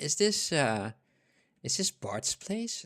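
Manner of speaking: mock skittish, quiet, nervous, halting little voice. Retelling what a caller said after the speaker picked up the phone, imitating a quiet, nervous voice. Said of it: "very uh, quiet and nervous voice".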